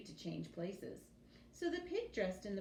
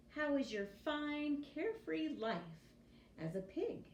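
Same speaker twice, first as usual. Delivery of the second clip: teasing pig; 7 semitones higher than usual. Acted. Pig teases the prince.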